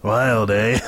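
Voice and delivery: drawn-up, amused echo question; amused dad. A narrator's reading. Dad amused by his son's answer, teasing. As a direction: repeat it teasingly, rising at the end.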